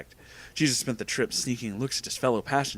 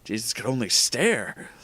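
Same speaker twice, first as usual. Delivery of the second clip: ordinary delivery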